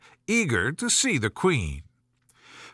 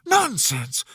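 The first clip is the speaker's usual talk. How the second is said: firm, a bit higher; loud and decided; 6 semitones higher than usual. A narrator's reading. Alice defying the Queen, loud and decided. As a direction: put your foot down. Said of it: "very loudly and decidedly".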